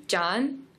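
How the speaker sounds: John rising like a question. Shown as a demonstration. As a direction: ask John upward. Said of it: "more of a question".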